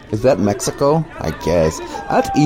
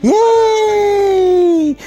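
high, loud shout of joy; excited cheer; 4 dB louder than usual. Real, not acted. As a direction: yell it out in triumph. Cheering a deportation story.

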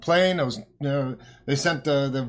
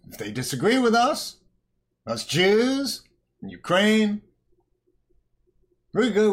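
wag a finger and scold, higher; mock scolding; 3 semitones higher than usual. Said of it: "says Janet Yellen".

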